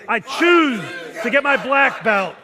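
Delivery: shouted high and loud with full force; intense shout. Shown as a demonstration. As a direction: roar it out for the class to follow. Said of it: "Say it with me".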